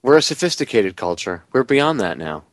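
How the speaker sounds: dry mock-superior irony; sarcastic. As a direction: say it deadpan, not meaning it. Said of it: "I just have to be sarcastic".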